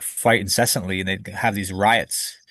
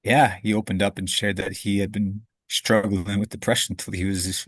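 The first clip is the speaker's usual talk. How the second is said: real welling tears. Real, not acted. Telling the host about his father, near tears. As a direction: choke on it, then push through. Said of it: "I can feel tears kinda coming up".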